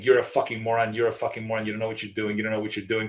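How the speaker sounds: ordinary delivery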